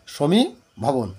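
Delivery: সমীভবন spoken very slowly, syllable by syllable; teacher slowly spelling out সমীভবন; slow dictation. Shown as a demonstration. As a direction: draw সমীভবন out for the students to copy. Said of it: "এই তর্কাতর্কি হচ্ছে গিয়ে".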